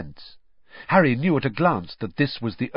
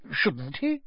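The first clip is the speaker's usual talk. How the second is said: anxiously; 5 semitones higher than usual. A narrator's reading. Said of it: "said Mister Weasley anxiously".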